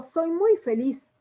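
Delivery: happy, emotional. Shown as a demonstration. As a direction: let the joy show, drawn out. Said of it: "estoy mostrando un estado de ánimo". (feliz y emocionada, lenta)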